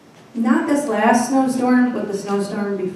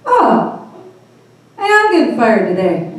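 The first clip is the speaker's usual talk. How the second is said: laughing resignation; 4 dB louder than usual. Retold or imitated. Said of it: "And I go".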